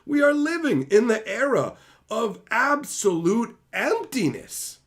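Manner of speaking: building from irritation to a furious peak; escalating angry rant. Real, not acted.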